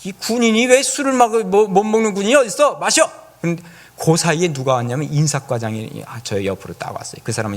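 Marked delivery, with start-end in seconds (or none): 0.0-3.1 loud, higher, snapping at a chaplain; mock-angry shout to drink; irritated commander. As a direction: bark the order like an annoyed colonel. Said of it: "막 신경질을 내는 거예요".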